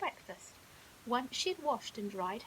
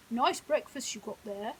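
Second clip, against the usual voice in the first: hippo voice; 7 dB louder than usual. Acted. Hippo Henry speaking.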